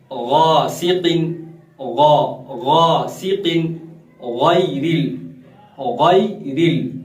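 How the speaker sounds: गासिकिन and गैरिल slowly, with a thick throaty Arabic gh; slow Quranic reading demo, heavy gh on गासिकिन, गैरिल; full ghain. Shown as a demonstration. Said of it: "हमेशा पुर पढ़ा जाने वाला". (गासिकिन, गैरिल का गैन पुर और मोटा)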